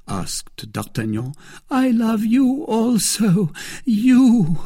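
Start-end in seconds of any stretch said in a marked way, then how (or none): 1.7-4.6 high, slow and lingering; Milady, tender and high. A narrator's reading. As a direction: lean into the second you. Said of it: "said she".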